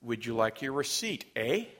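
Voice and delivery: lightly imitated learner's Canadian "eh?"; imitated Canadian talk. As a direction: tack on a rising Canadian "eh?". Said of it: "speaking like a Canadian".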